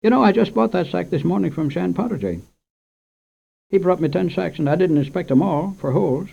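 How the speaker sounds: a hint of a fretful shopkeeper explaining; storekeeper. Storekeeper voiced in story.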